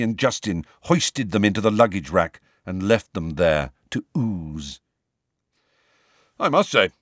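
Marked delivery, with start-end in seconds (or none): 6.4-6.9 louder, higher gleeful relish; satisfied. A narrator's reading. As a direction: savour the thought out loud. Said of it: "with some satisfaction".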